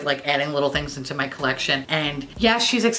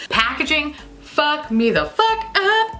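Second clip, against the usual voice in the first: excited gush; 9 semitones higher, slower than usual. Real, not acted.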